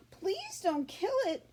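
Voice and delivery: high, slow mock sobbing plea; a girl begging her father, lightly sobbing; pleading sob. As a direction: beg through a light sob. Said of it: "she sobbed".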